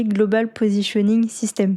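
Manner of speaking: English term with a French accent; real French accent on English words. Real, not acted. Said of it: "désolé pour mon accent anglais".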